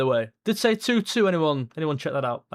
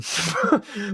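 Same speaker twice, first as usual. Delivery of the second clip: rueful laugh; 3 semitones higher than usual. Real, not acted. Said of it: "Obviously, I'm fuming".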